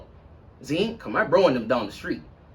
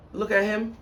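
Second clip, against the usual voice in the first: high, slow knowing aside; a slow, meaningful put-on aside; mock pointed look; 8 semitones higher than usual. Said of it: "I'm like".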